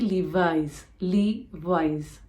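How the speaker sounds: "Levi's" said LEE-vize with a buzzing z; Z sound at the end. Shown as a demonstration. Correcting viewers on the brand name. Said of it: "have that Z sound".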